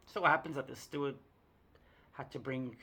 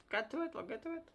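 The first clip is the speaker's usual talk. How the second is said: high teasing singsong stalling; 9 semitones higher, 7 dB quieter, faster than usual. Acted. Audience waiting to see shirt, high teasing singsong. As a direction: tease them, stretching out the wait.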